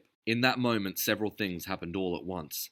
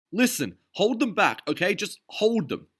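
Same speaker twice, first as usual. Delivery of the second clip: much higher, louder orders; urgent command; 13 semitones higher, 7 dB louder than usual. A narrator's reading. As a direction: press the order home. Derville commanding in battle.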